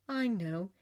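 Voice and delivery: mildly soothing reassurance; understated comforting tone. A narrator's reading. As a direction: gently comfort a crying friend. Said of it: "soothed Elphaba".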